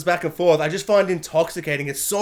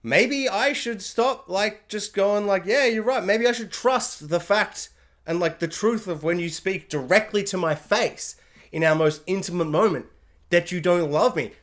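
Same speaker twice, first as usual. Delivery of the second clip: heartbroken Tom. Retold or imitated. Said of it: "heartbreak and devastation when he's just like".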